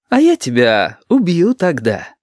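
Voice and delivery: slow, affectionate-sounding threat; gentle threat. A narrator's reading. The cheerful stranger tells the thug, slow and tender, he'll kill him. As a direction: promise death kindly, unhurried. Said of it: "ласково ответил весёлый".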